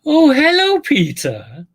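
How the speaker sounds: high, loud knowing "Oh, hello"; pointed greeting. Retold or imitated. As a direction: sing out a loaded hello. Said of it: "just the way she said".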